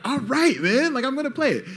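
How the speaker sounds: high hammed-up caving in; mock giving in. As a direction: cave in with a high silly voice. Giving in, mocked.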